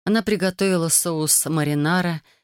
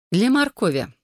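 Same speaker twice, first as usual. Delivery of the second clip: higher pitch, with a smile; clarify it with a light smile; smiling clarification; 5 semitones higher than usual. A narrator's reading. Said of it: "с улыбкой уточнила она". (с улыбкой)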